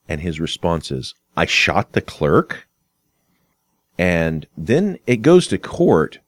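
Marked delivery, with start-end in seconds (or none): 1.4-2.7 mildly questioning "I shot the clerk?", slowly drawn out. Acted. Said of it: "it is no longer a question".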